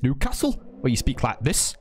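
put-on Geordie accent; attempted Newcastle accent. Shown as a demonstration. Streamer attempting how Newcastle people speak, amateur Geordie accent. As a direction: have a rough go at Geordie. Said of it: "that's also probably terrible".

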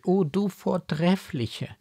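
high-pitched, fervent exclamation; emotional cry. A narrator's reading. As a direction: exclaim in adoration without shouting. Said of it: "rief sie". (inbrünstig ausrufend)

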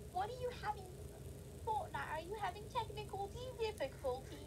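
put-on British accent. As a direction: quote the meme in a British accent. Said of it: "it was, like, in a British accent".

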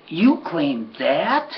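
slow, drawn-out unimpressed question; disbelief. Retold or imitated. Wife seeing the scruffy new horse, slow mild disbelief. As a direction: draw out the doubt. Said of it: "my wife looked over there and goes".

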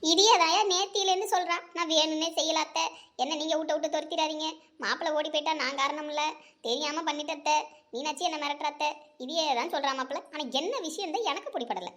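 a scared aunt pleading, babbling her confession; lightly voiced fearful mother-in-law; frightened aunt. Frightened aunt confessing to her son-in-law, pleading and babbling.

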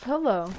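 "pillow" with an eh, as PEL-oh; pellow pronunciation. Shown as a demonstration. Correcting a friend in an argument, "pillow" as PEL-oh. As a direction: insist that "pillow" is PELL-oh. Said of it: "It's pronounced pillow".

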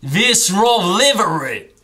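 slow mock Aussie nonsense; fake Australian accent. Still needling his friend, slow mock Australian accent. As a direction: drag out fake Aussie words. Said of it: "You can't stop".

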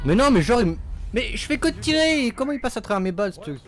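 high, loud exasperated protest; frustrated outburst. Real, not acted. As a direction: complain in disbelief. Frustrated at dying in game.

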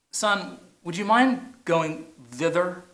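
slow, gentle ask to the son; a father's slow, genteel request; polite mock request. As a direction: ask the son nicely, slowly. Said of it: "You can say".

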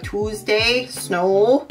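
Minnesota accent, slow "Tuesday" and a long rounded O in "snow"; Minnesota vowels. Shown as a demonstration. Showing viewers the Minnesota accent, a drawn-out O in "snow". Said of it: "we seem to emphasize the O's more".

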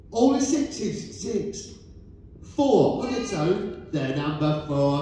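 rising call, then number settles down; bingo caller. Acted. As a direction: sing out each number to the hall. Calling bingo numbers to hall.

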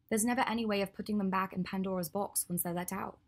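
lightly voiced Hermione. Hermione explaining her prosthetic design to Draco, lightly voiced.

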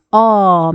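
어 held, between an o and an a; in-between vowel. Shown as a demonstration. Teacher shows the middle vowel, 어 drawn out. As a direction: say 어 long, midway between 오 and 아. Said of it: "오나 아의 중간 발음".

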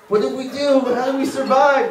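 high, laughing mock lament; mock anguish. Comic mocking black moviegoers, high mock lament. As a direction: wail it half-laughing as a grieving viewer.

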